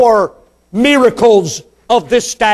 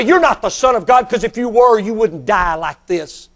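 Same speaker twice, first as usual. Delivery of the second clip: retold jeer, rising in pitch midway; preacher acting out mockery; mocking. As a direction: taunt like a scoffer in a crowd. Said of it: "begin to mock Him and say".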